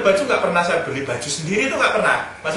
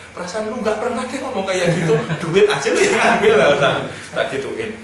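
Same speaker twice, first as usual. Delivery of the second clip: laughing tease. Retold or imitated. Teasing his wife, laughing.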